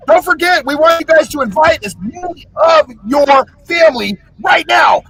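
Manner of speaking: loud, high, hyped call to like and subscribe; hyped outro shout. Acted. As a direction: pump up the listeners. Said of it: "podcast outro call to subscribe".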